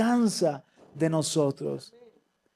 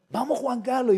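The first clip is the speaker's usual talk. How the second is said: lightly imitated trainer's rallying call; high-pitched echo of a coach's encouragement; Brian; 8 semitones higher, 3 dB louder than usual. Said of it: "la voz de Brian diciéndome".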